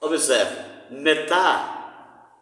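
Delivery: metá with the stress on the final syllable TÁ; stress on last syllable. Shown as a demonstration. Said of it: "porque o acento tá na oxítona". (metá com acento na última sílaba)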